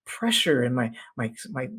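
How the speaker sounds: hint of a baffled wife; lightly voiced complaining woman. Coach retelling the video, wife trailing off confused. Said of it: "She's like".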